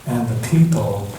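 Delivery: put-on gentle storybook reading for children; story narration. A narrator's reading. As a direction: read it like a bedtime picture book. Reads picture book to children.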